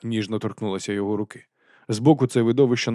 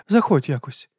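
coolly; 5 semitones higher than usual. A narrator's reading. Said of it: "холодніше промовила леді Ремкін".

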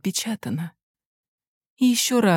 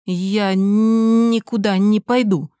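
медленно, с нажимом, громче; упрямо чеканит каждое слово; упрямый отказ; 4 dB louder, much slower than usual. Acted. (сын упирается, медленно и с нажимом)

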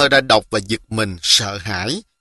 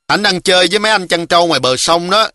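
put-on a touch of a young girl, pitched up; higher voice for a helpful little girl; lightly voiced little girl; 6 semitones higher than usual. Hường Lý answers the boy about her errand, lightly girlish.

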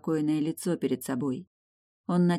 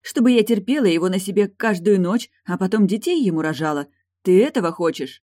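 higher and louder, bitter spite; spiteful; 5 semitones higher, 8 dB louder than usual. A narrator's reading. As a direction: spit out the bitter accusation. Eilin voiced by narrator.

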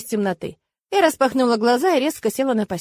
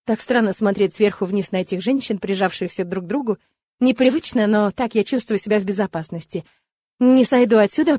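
usual speaking voice

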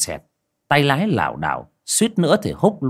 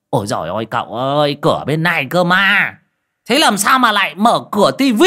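put-on rising higher and louder, laughing at his drunk master; shrill laughing reply; 6 semitones higher, 6 dB louder than usual. A narrator's reading. Host laughing at drunk master who opens the TV, shrill and rising. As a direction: tease him through a squealing laugh. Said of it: "ré lên cười".

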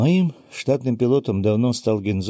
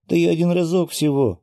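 put-on high little-girl voice, sulky protest; pouting; 8 semitones higher, 4 dB louder than usual. A narrator's reading. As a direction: pout like a child caught out. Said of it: "надулась девочка". (обиженно, по-детски)

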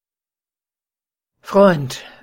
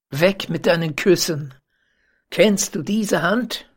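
angry cry; 2 semitones higher than usual. Acted. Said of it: "so rief er".

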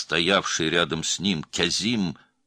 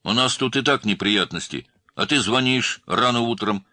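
higher, louder scolding; angry complaint; 6 semitones higher, 5 dB louder than usual. A narrator's reading. Man scolding an early caller, angry. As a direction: tell the caller off crossly. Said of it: "тоже рассердился мужчина".

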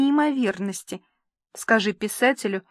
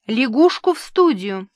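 calling out; 4 dB louder than usual. Acted. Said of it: "прокричал незнакомый голос".

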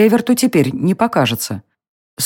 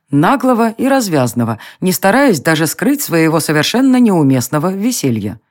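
usual speaking voice

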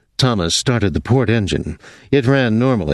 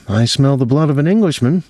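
higher, playful giant line; mock giant; 6 semitones higher than usual. Jean teasing Rudolph, lightly voiced giant. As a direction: tease him like a storybook giant. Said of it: "Jean said".

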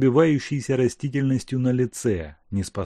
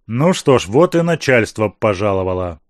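louder, grumbling through clenched teeth; through gritted teeth; 5 dB louder than usual. Acted. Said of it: "скрипнул зубами Бобриков".

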